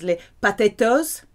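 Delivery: put-on les patatos in a light French accent; imitating mother saying les patatos, a touch of French accent; mother's Frenchified word. Son imitates his French mother, lightly accented. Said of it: "or as my mother says".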